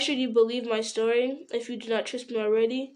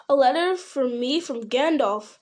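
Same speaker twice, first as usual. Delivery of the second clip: cried out; 3 semitones higher, 4 dB louder than usual. Acted. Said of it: "cried Frodo".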